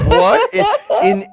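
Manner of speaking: high laughing what; laughing disbelief. Real, not acted. Husband laughing at wife's squeaky answer, high and laughing. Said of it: "laughing in disbelief".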